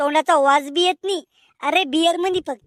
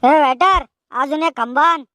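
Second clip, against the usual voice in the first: calling waiter; 3 semitones lower than usual. Acted. Calls waiter for another bottle.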